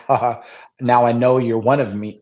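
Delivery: mock knowing chuckle into the line; imitated laugh. Fan acting out a film character's laugh after the bottle handover, mock laughing. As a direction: imitate his laugh, then speak the thought. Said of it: "the way he laughs, it could be like".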